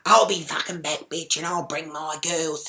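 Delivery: retold threat, starting loud; mock parting threat; mouthing off. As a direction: imitate her mouthing off. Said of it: "She's mouthing off".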